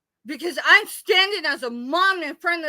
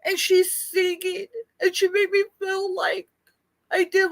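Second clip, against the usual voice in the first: crying; 3 semitones higher than usual. Real, not acted. Crying about a friend.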